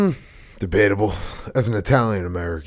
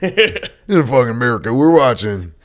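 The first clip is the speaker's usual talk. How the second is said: retold scolding; 4 semitones higher, 7 dB louder than usual. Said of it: "I'm like".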